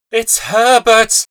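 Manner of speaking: high, slow, loud scream of hope. Acted. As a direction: scream his name, stretched out. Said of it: "she screamed".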